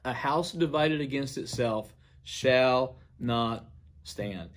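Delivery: slow, deliberate proclamation, only lightly projected; mild retold declaration. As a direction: retell a solemn public pronouncement, pausing before the last word, dropping on "stand". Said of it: "stated in a very loud voice".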